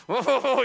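pulsing, straining oh; mock labour moan; imitated birthing groan. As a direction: groan through a pretend contraction. Acting out desperate birthing groans.

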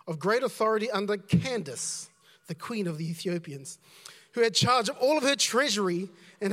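measured, projected Bible reading; scripture reading. Acted. Preacher reads Acts to the congregation, declaiming lightly. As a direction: read the passage out to a congregation.

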